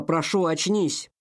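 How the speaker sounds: slow, drawn-out begging; desperate pleading. Acted. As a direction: beg her slowly to wake up. Begging drowned girl to wake.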